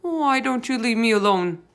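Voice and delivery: high, nervous plea; frightened giant pleading. A narrator's reading. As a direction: beg to be left alone.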